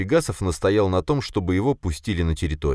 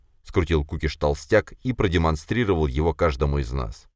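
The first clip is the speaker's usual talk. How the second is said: ordinary delivery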